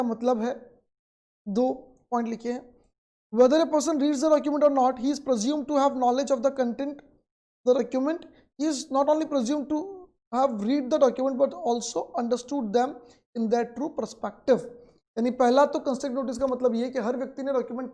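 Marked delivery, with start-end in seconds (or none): 3.3-14.6 reads the textbook line out very slowly, word by word; slow dictation. Acted. Teacher dictating the textbook definition to students, very slow. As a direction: dictate it so students can write.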